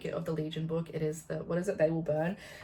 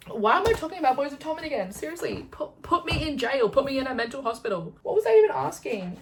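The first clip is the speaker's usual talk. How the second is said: much higher, louder mock panic; hammed-up hysterical rant at herself; frantic; 7 semitones higher, 6 dB louder than usual. Real, not acted. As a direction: wail it like you're losing it. Frantic self-mockery about obsession.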